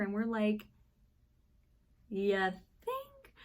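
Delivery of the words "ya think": dry, deadpan ya think; sarcastic. Retold or imitated. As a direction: roll your eyes at the obvious. Sarcastic reply to maintenance guy.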